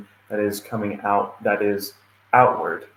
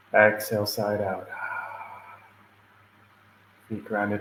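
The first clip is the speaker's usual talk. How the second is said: guided meditation. Acted. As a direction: lead them gently through breathing, leaving space after each cue. Opens a guided meditation, breathing cues.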